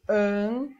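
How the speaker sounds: "Ambulância" in long syllables with wide pauses; dictating by syllable. Shown as a demonstration. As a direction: say "Ambulância" piece by piece while writing. Dictating while writing the word. ("Ambulância" ditada sílaba por sílaba, devagar)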